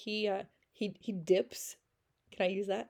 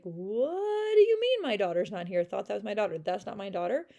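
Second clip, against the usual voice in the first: despairing cry; 6 dB louder than usual. Retold or imitated. Fantine's retold despairing cry.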